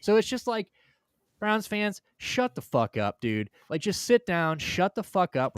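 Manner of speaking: real frustration, loud and high; exasperated rant. Real, not acted. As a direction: vent loudly at the fans.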